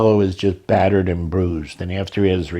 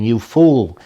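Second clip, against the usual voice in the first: shouting; 4 dB louder than usual. Retold or imitated. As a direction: bellow a warning while losing control. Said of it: "a mahout shouting".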